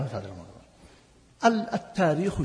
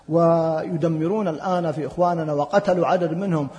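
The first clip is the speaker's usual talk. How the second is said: ordinary talk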